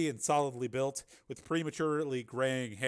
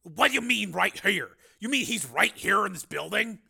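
high, loud, rising disbelief; incredulous questioning; 8 semitones higher, 8 dB louder than usual. A narrator's reading. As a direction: challenge the answer in alarm. Marshal questions the baffling answer.

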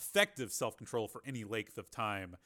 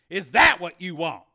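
louder, higher Carmen voice; mild surprise; 7 semitones higher, 15 dB louder than usual. A narrator's reading. Carmen questioning Jennifer, mildly surprised. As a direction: feign surprise. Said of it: "Carmen looked surprised".

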